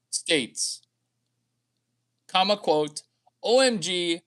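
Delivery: dictating, reading out punctuation. Pretend. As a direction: dictate it like a voice memo.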